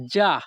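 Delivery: যা said alone as one clear syllable; pronunciation demo. Shown as a demonstration. Teacher shows learners how to pronounce it, demonstrating যা clearly. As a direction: sound out যা as the Italian ending. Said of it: "এর উচ্চারণ হবে".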